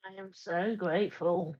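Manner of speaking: understated sarcastic submission. Acted. Captive answering her would-be master, sarcastic. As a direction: feign gratitude with quiet sarcasm. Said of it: "sarcasm in her voice".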